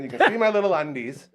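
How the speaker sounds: ordinary delivery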